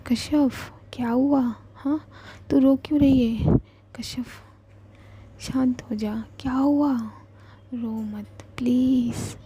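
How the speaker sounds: a worried friend pleading, stop crying. Acted. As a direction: beg her to stop crying. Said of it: "वो बेचैन हो जाती है".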